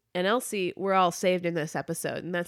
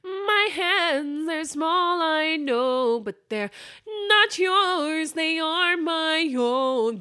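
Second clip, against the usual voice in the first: dramatic voiceover; 7 semitones higher, much slower than usual. Acted. Mock noir hand narration.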